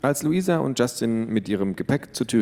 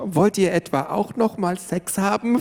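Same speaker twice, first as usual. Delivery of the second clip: upset; 10 semitones higher than usual. A narrator's reading. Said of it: "fragte Tiffany ihre Eltern aufgebracht".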